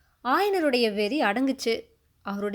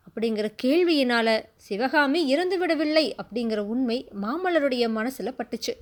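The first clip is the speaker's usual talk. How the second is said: plain reading voice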